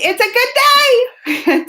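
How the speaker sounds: high, stretched-out, gleeful cry; excited exclamation. Real, not acted. Streamer celebrating a good day with viewers, excited. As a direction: sing it out with big excitement.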